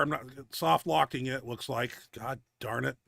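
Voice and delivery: winded after a heavy set; out of breath. Real, not acted. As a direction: talk between heavy breaths. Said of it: "I'm out of breath".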